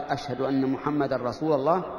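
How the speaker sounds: "رسول" ending in -a, rasūla; muezzin's grammatical slip. Shown as a demonstration. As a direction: say rasūla-llāh for "رسول الله". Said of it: "إن المؤذن إذا قال". (نطق "رسول" بفتح اللام)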